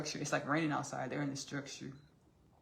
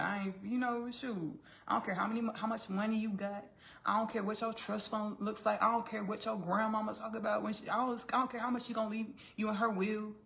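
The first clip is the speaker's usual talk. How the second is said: raised-pitch sassy brush-off; mock defiant; 5 semitones higher than usual. Elizabeth waves away Darcy's money, mock defiant. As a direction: pile up the refusals, playfully indignant.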